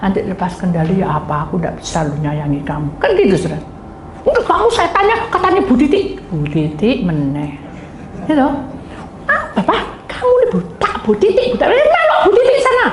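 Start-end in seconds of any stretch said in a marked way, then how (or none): 4.3-7.5 jealous outburst. Acted. Acting out a jealous spouse's outburst. 9.3-12.9 high, frantic acted nagging; hammed-up jealous scolding, very high; jealous spouse's tirade.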